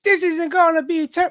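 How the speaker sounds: high cartoon villain voice; put-on villain, high and hammy; Joker. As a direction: pitch it up as a comic-book villain. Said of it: "All right, Joker".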